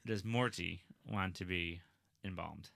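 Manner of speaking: slow, stiff robot voice. Real, not acted. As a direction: say it like a robot, slowly. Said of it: "You sound like a robot when you say it".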